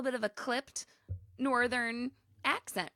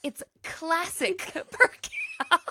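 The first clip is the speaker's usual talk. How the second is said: put-on northern accent; 7 semitones higher, much slower than usual. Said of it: "She's like".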